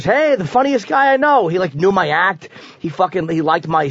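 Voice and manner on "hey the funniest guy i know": high, slow, sing-song mock greeting; a rock singer's greeting. Quoting a rock singer praising him, high slow sing-song. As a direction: lift it up high and draw it out like a rock star. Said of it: "and he goes".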